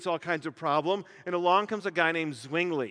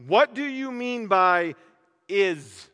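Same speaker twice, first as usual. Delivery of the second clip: slow question, landing on "is"; stress on is; 4 dB louder, slower than usual. Shown as a demonstration. Preacher pressing cadets on the meaning of "is", slowly. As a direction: draw out the question, then punch "is". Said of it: "most hotly debated words".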